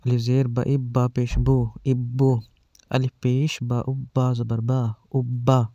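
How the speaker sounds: slow, spelled-out syllable drill; firm, paced spelling recital for children; drill reading. Shown as a demonstration. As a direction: read each sound firmly with pauses, like a teacher drilling kids. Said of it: "سختی سے اور رک رک کر پڑھ رہے ہیں".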